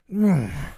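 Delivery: short high growl of frustration; frustrated growl. Acted. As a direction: growl through your teeth. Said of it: "he let out a frustrated growl".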